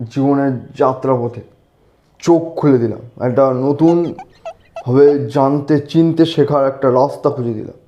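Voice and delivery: mock sage. Boasting to friends about his wisdom, slow mock-sage delivery. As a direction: preach it like a self-made guru, slowly. Mock wise life lesson.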